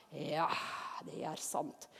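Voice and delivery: very soft, low sighed admission; subdued modest agreement. Acted. Believer answering admiring people, hushed modest agreement. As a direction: agree quietly and humbly.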